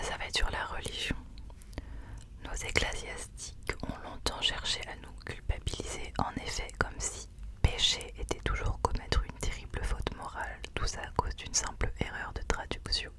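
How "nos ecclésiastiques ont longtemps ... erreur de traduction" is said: reading a passage in a whisper. Real, not acted. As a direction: read the passage aloud, whispered. Reads book passage aloud.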